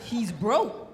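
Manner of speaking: deep, deadpan complaint voice; returning a husband. Acted. Wife returning her husband to his mama, deep and deadpan. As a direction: drop way low like at a returns counter. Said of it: "take him back to his mama's house".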